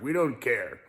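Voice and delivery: softly voiced company boss quote; understated impression of someone shrugging it off; Mister U P R. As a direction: lightly imitate a sponsor, quietly. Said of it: "that's Mister U P R's voice".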